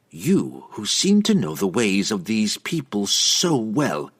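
slow, dripping sarcasm; mock his expertise; sarcastic priestess needling him. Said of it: "she prompted with more than a bit of sarcasm".

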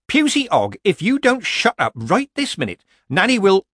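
loud, high, cross threat; scolding grandmother. A narrator's reading. Grandmother ordering her grandchild to shut up, scolding. Nanny threatens the screaming child.

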